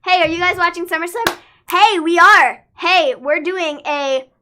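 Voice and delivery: high, loud, drawn-out hype announcement; loud calling out. Pretend. Co-host hails viewers about the SummerSlam watch party, calling out loudly. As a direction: holler it out to the whole audience.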